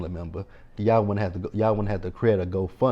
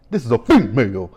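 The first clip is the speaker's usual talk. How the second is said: Craig from Friday; 7 dB louder than usual. Retold or imitated. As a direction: quote it like a movie line, stretching "female". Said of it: "Craig from Friday".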